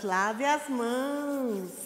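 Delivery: drawn out, slow and clear; slow teaching read. Shown as a demonstration. Teacher reading the sign slowly to children. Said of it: "teacher models slow reading".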